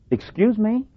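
sarcastic disbelief with a high, rising pitch. Real, not acted. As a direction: query it in mock disbelief, voice lifting high. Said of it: "probably going to get sarcastic".

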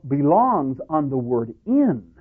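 "in" picked out as the key word; stress on IN. Shown as a demonstration. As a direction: land the emphasis on "in". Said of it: "The emphasis".

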